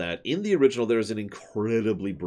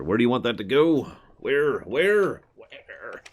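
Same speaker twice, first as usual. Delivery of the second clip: exasperated; 4 semitones higher, 5 dB louder, slower than usual. Real, not acted. Player hunting where money goes.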